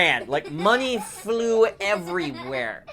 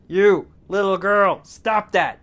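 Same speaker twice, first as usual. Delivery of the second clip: loud, raised robber voice; barked order; 5 semitones higher, 9 dB louder, slower than usual. Acted. Robber catching the little girl moving, loud order. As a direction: bark at a child to stop.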